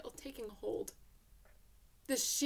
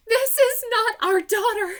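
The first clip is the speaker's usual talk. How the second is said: much louder and higher, crying out in relief; joyful exclamation; 11 semitones higher, 17 dB louder than usual. Acted. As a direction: shout it like the best news ever. Maureen's relieved declaration.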